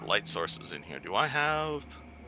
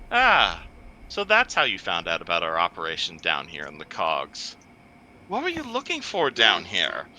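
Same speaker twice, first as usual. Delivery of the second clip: metallic voice filter; 6 semitones lower than usual. Acted. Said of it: "the first metallic voice responds".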